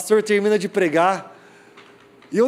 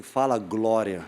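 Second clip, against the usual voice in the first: measured instruction; 8 semitones lower, 5 dB quieter, slower than usual. Retold or imitated. Leader's slow low instruction.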